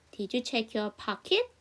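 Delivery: slow, deliberate question for learners; slow practice read. Shown as a demonstration. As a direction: read it slowly so they can copy. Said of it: "여기 저랑 같이 한번 연습해봐요". (천천히 또박또박 질문 시범)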